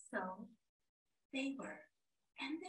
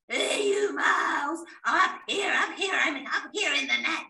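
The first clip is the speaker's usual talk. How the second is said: calling out; 3 semitones lower, 7 dB louder than usual. Acted. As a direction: shout down from the net. Lion calls from net.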